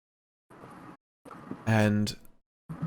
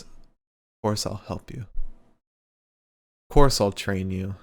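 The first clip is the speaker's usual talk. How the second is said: lightly voiced Scottish accent; deep Scottish voice. Scottish wrestler agreeing to train a fan, lightly put-on Scottish voice. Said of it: "deep Scottish voice".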